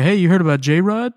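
frat bro. Retold or imitated. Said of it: "J-Rod sounds like a frat boy".

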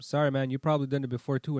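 lightly put-on customer service apology. Apologizing to angry driver, mild customer service voice. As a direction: placate them like a service agent. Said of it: "I use my customer service voice".

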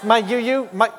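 laughing through mock offense; laughing mock indignation. Churchgoer to usher, laughing in mock indignation. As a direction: protest your privacy while cracking up.

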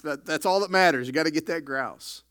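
loud, punchy preacher emphasis; loud emphatic. Acted. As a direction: hammer home that it's all that matters. Preacher stresses hunter's priority.

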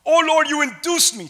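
emphatic plea read aloud; preached scripture reading. A narrator's reading. Preacher reads Jeremiah's complaint to God, emphatic. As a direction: project Jeremiah's complaint to the room.

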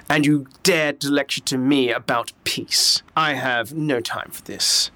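shaking with anger. Acted. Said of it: "he's immediately just scowls".

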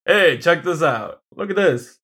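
strut it like Gaston showing off; lightly voiced Gaston boast; Gaston impression. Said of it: "he's very Gaston".

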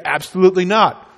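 a steady, firm no; firm refusal. Pretend. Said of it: "You would say".

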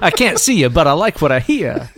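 jokey, inaccurate imitation of a TV character; A.C. Slater. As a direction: play it as a hammed-up sitcom guy. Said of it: "he doesn't talk like that".

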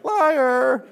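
put-on high, loud kid voice; little boy accusing. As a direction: mimic a ten-year-old calling you out. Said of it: "This little ten-year-old boy is like".

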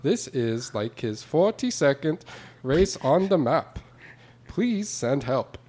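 put-on, off-target Canadian accent. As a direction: read it in a mock Canadian accent. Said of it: "you're doing a Canadian accent".

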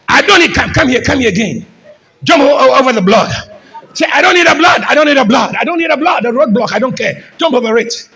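dismissive, shrugging defiance; careless boy. Retold or imitated. Preacher voicing a defiant son, dismissive. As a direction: toss it off like a rebel who doesn't care. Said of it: "look at this boy. He doesn't care".

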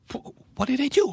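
high, stammered disbelief; shocked high squeak. Acted. Acted shocked reply.

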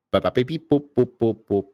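bad robot beeps. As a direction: beep boop robot noises. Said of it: "Oh no, I'm roboting".

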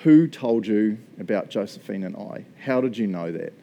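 low, doubting challenge; retold confrontation, kept low and measured; skeptical. Skeptic questioning the visiting prophet, retold in a skeptical tone. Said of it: "being all skeptical".

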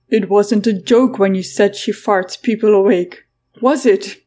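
can't believe what he's hearing; incredulous. Acted. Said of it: "James sounded incredulous".

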